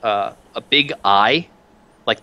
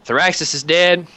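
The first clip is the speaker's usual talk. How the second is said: grim commander; 4 semitones higher than usual. Acted. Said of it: "she goes".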